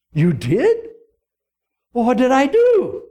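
hammed-up king. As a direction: play dumb as the king. King feigns forgetting.

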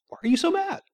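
high, soft imitation of mom; light, hushed, innocent question; very simple, calm. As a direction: ask gently, without any aggression. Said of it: "very simply".

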